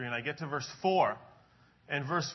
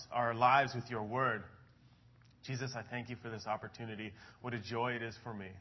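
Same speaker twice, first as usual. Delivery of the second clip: opening prayer; 3 semitones lower than usual. Acted. Pastor praying over the congregation before the sermon, earnest prayer. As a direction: lead the room in prayer.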